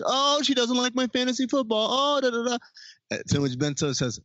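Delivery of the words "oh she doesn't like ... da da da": high nasal-free whiny mockery. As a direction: whine it like a complaining friend. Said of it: "the whiny voice that we all adopt".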